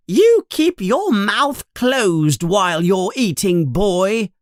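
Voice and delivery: high, sharp reprimand; angry mother. Acted. Mother snapping at Ron for eating mouth open, high and sharp. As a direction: bark the table manners at him. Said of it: "says Missus Weasley angrily".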